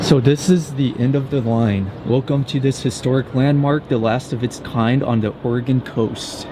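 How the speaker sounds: talking through the cold; shivering. Real, not acted. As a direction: voice odd from freezing. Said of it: "that's why I'm talking kind of odd".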